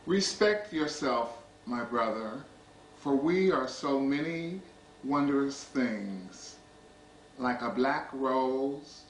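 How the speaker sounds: measured poetry reading with deliberate pauses; poem recitation. Acted. Poet reading to an audience about brothers loving brothers, measured recitation. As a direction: recite line by line, letting each phrase settle. Reads own poem aloud.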